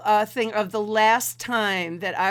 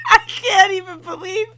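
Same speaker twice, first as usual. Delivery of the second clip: high-pitched laughing through the words; can barely get the words out; helpless laughter; 9 semitones higher, 6 dB louder than usual. Real, not acted. Host laughing at the frozen frame laughs helplessly.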